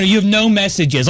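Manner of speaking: lightly imitated automated voicemail woman; voicemail lady. Host mocking his voicemail lady, lightly imitated. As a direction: mimic the recorded message lady. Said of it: "her voice".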